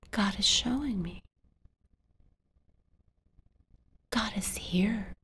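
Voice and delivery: hushed, breathy realization; a child realizing God is near, whispered; awed whisper. Acted. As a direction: whisper it in awe.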